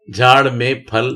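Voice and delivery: झाड़ में फल read slowly, word by word; teacher reads slowly for the class; slow reading aloud. Shown as a demonstration. Teacher reading a practice line to students slowly. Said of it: "reading practice sentence".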